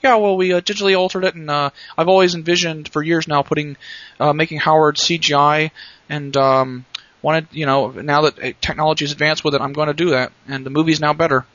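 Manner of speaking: hammy director explaining his edits; George Lucas impression. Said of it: "Worst kind of impression".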